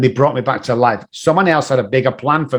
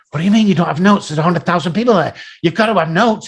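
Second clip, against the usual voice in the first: mock freaking out; 3 semitones higher, faster than usual. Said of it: "he was freaking out".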